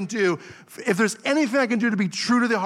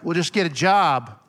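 dismissive mock voice; 4 dB louder than usual. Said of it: "go to her and be like".

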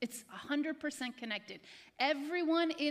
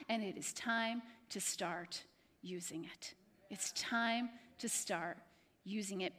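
hushed; 7 semitones lower, 6 dB quieter than usual. Real, not acted. Closing appeal, hushed.

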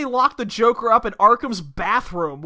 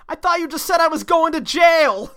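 indignant Bob; 7 semitones higher than usual. Acted. Acts Bob protesting to Batman.

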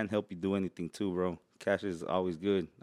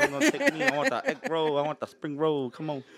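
high, whiny mock Asian accent; playful high Asian-accent pleading; 5 semitones higher than usual. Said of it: "the Chinese and the Vietnamese".

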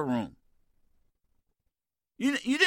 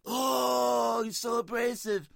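high mock whine from critics; squeaky mock outrage, tailing off; 6 semitones higher, slower than usual. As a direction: pitch up to make fun of critics. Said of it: "it's like".

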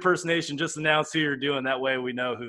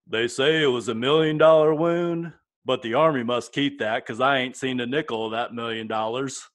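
Forrest Gump impression; 3 semitones lower than usual. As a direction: slip into a gentle Southern Forrest Gump. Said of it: "Was that Forrest Gump?".

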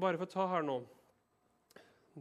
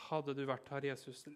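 accusing; 4 dB quieter than usual. Shown as a demonstration. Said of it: "Litt sånn anklagende".

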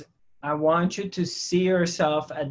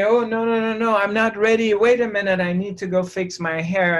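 hurried mock panic, higher-pitched; nervous, frightened; 4 semitones higher, faster than usual. Speaker imagining someone about to meet their soulmate, nervous and frightened. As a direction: play mildly flustered protest, pitched up. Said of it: "get nervous and frightened and say".

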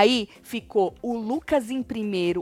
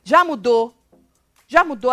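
louder, sharper tone of irritation; changed tone; 6 dB louder than usual. Retold or imitated. Retelling Lucas showing his irritated tone, louder. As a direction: show the tone shifting as he gets annoyed. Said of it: "o tom de voz dele é aquele, muda".

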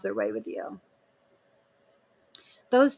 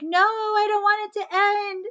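high pleading past self; 9 semitones higher than usual. Retold or imitated.

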